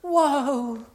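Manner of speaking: high, loud mock whoa; stupid voice. Lady repeating herself during the sermon, stupid high voice. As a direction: parody her piercing, drawn-out whoa. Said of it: "putting that stupid voice on".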